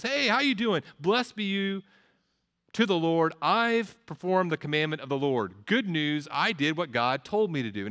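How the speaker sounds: high, bright cheery greeting, pleased with himself; chipper Saul. Acted. Preacher voicing Saul greeting Samuel, cheerful and smug. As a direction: play a self-satisfied king breezing in.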